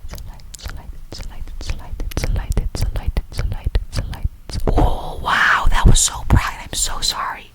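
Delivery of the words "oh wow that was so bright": startled whisper. Real, not acted. Startled by a bright light.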